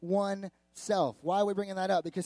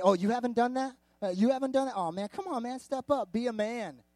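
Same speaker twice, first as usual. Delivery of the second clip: lightly acted taunting buddy, pitched higher; mock peer pressure; 5 semitones higher than usual. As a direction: goad a friend as if egging him on. Boys pressuring friend to prove manhood.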